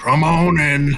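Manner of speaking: rough, gruff tone. Narrating a voice that answers a knock at a door: gruff voice. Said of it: "you hear a pretty gruff voice say to you".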